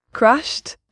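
questioning echo. Acted. Asked if being American would crush her, questioning echo. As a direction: throw the word back as a question.

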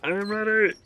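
high, loud "I'm ready"; loud nervous cry. Real, not acted. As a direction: call it out high and tense. Bracing for a scare, first take.

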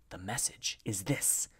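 soft, secretive hush; whispered. A narrator's reading. Messenger begins his secret news for B, whispered. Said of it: "whispered the messenger".

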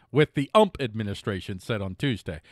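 Ump said as "ump", no T, as a running gag; ump administration. Shown as a demonstration. Host reading the news with his joke nickname, deadpan. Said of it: "I'm gonna say that from now on".

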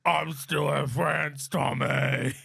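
put-on slow, drawn-out British accent; Peaky Blinders British accent. Soldier brother confiding in Tommy, slow British accent. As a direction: draw it out in gangster British. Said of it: "Zach does Peaky Blinders".

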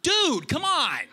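high, pleading whine; whiny pleading. Retold or imitated. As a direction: beg through the locked door. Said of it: "And you're like".

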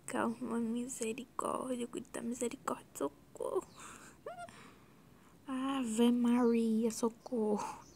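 laughing fit. Real, not acted. Laughing fit over her own editing.

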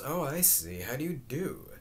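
understated impressed greeting; a touch of new interest; really impressed. Acted. Girl meeting a supposed football star, mildly impressed. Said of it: "now really impressed".

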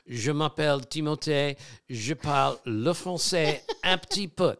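rusty high-school French accent; timid French-class French; schoolboy French. Shown as a demonstration. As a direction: recite "Je m'appelle Timothée" like a French class drill. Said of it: "I majored in French in high school".

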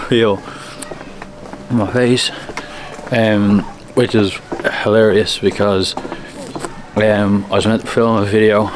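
talking with a numb mouth after the dentist. Real, not acted. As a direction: numb lips, words slightly slurred. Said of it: "you'll have to excuse the voice, 'cause I'm all numb".

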